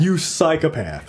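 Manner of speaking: slow, drawn-out mock rebuke; emphatic admonition. Co-host voicing the film scolding its misguided fans, emphatic admonition. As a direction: land the insult slowly, as a telling-off. Voices the film's message as scolding.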